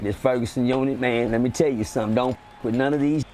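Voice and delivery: low voice of a prison veteran friend; Drico. Retold or imitated. Friend warning a newcomer about the unit, imitated low voice. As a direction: pitch it down, schooling the new guy. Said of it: "I gotta do my Drico voice".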